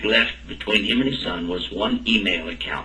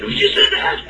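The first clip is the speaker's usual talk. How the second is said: incredulous laugh; 3 dB louder than usual. Retold or imitated. Father reacts in disbelief.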